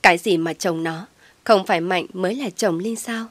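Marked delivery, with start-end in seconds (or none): none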